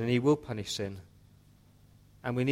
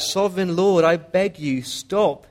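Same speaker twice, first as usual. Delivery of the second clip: loud, high cry of desperate appeal; 6 semitones higher, 8 dB louder, slower than usual. Acted. Prophet Amos begging God to stop, loud crying out. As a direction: beg at full voice, pitched well up. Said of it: "cried out".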